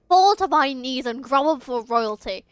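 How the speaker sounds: lightly voiced haughty royal command; a touch of regal arrogance; commanding prince. Prince ordering the villain to kneel, mildly imperious.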